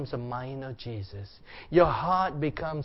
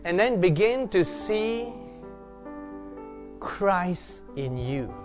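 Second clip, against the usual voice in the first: reflective preaching. Acted. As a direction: preach gently into a time of prayer. Meditative preaching over worship music.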